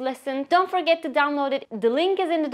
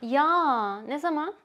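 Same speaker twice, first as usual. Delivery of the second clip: surprised; 2 semitones higher, slower than usual. Shown as a demonstration. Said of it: "show that you are surprised".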